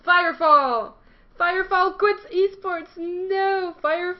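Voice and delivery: loud, high mock-shocked cry; shocked outcry. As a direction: shout it like breaking shock news.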